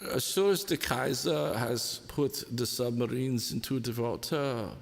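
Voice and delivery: lightly voiced pompous German poet; a hint of a grand German orator, in mock recital; a faint poetic German voice for a teasing friend. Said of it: "as the poetic German would say".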